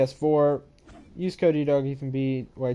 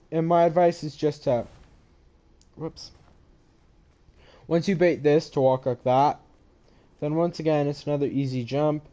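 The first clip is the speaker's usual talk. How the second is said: ordinary talk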